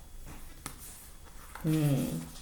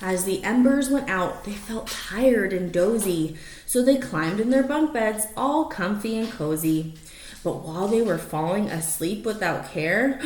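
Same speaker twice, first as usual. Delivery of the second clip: lively rhyming read-aloud; story narration; 3 semitones higher, slower than usual. Acted. Reading a rhyming picture book to the dogs, lively storytelling. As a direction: read it like a bedtime picture book, bouncing the rhymes.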